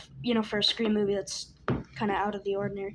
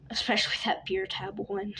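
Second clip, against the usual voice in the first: laughing whisper. Real, not acted. Laughing recalling a gory kill.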